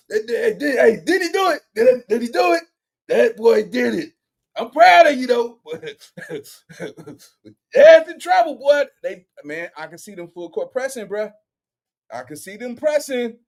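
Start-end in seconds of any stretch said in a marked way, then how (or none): 4.6-8.8 high and loud proud shout; hyped. Real, not acted. Praising Flacco after his rant, loud and excited. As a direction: cheer him on.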